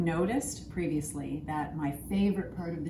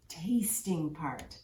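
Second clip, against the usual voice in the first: whisper; 3 semitones lower, 5 dB quieter, much slower than usual. Acted. Whispered teaser before tasting.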